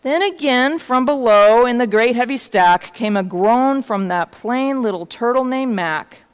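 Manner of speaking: measured picture-book reading; story narration. A narrator's reading. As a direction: read the tale aloud to children. Reads a story aloud.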